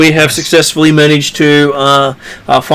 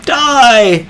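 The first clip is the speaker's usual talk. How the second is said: brigand war cry; 9 semitones higher than usual. Retold or imitated. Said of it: "the brigands yelling".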